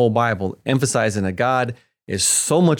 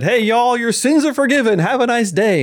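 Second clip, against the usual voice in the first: much higher and louder, a hammed-up offhand goodbye; mock casual Jesus; 12 semitones higher, 4 dB louder than usual. Pretend Jesus casually forgiving sins and leaving, high hammed-up voice. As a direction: play a breezy Jesus waving off sins. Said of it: "could Jesus have come to earth and said".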